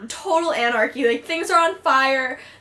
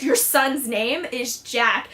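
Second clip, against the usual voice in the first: slow, controlled mock anger; understated angry correction, slowed right down; retold anger; 2 semitones lower, slower than usual. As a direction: imitate someone firmly correcting, word by word. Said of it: "Cass gets really angry".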